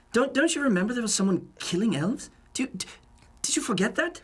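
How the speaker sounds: pressing the point, voice climbing high; incredulous. Acted. To the absent partner, demanding he remember the elf killings, high and pressing. S0 angrily confronts S1.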